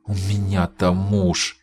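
slow, high anguished moan. Acted. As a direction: moan it out in despair. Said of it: "простонала она".

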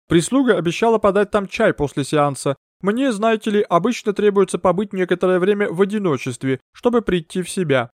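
mystic medium. Acted. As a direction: draw them into the séance. Medium talks to the maid.

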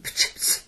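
a snorting laugh like a sneeze, breathy; sneezy laugh. Acted. Fiddler laughs at the khan with a sneezing snort. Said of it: "با صدایی که به عطسه میماند خندید".

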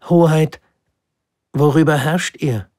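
put-on high, loud child's question; curious little prince. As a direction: ask with wonder. Prince asks the king. (neugieriger kleiner Prinz, hoch)

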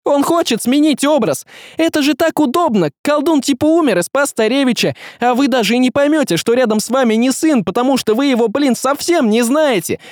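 high, urgent outburst; frantic argument. Acted. Young man exposing the sorcerer to everyone, frantic. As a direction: keep pressing the case high and breathlessly eager.

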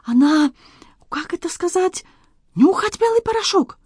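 excited Frenchman in broken Russian, high; Antoine voice. Acted. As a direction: play the flustered Frenchman, pitched high. Antoine speaks.

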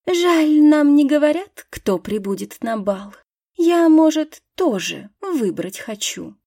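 whiny, high and loud; petulant. Acted. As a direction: complain like a spoiled girl. Ада капризно жалуется. (капризно)

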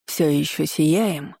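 slow, mocking sarcastic question; sarcastic sneer. A narrator's reading. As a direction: sneer it out slowly. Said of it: "Едко усмехнулся Граймс".

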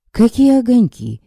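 startled, half-conscious question; puzzled and dazed; confused surprise. Acted. Half-drowned man confused.

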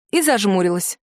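ordinary delivery, nothing marked

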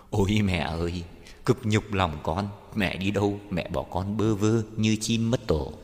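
grieving daughter-in-law's lament, mildly acted; mournful wailing. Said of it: "tiếng khóc thảm thiết".

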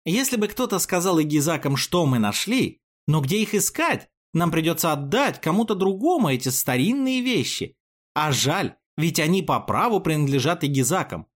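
high, clear and carrying; ringing voice. Acted. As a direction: call it out so hidden listeners hear. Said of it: "прочистила горло и звонко сказала".

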